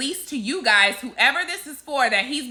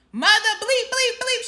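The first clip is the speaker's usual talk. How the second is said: snapping; 9 semitones higher than usual. Retold or imitated. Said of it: "she snaps at him".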